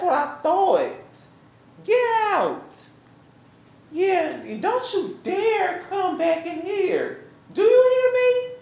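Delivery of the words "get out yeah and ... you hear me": angry dismissal. Acted. Final ejection, rising shout.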